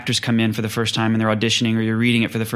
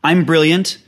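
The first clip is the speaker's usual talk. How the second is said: mock writer's mood swings; 3 semitones higher than usual. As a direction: play each stage of the creative grief. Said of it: "And it's like".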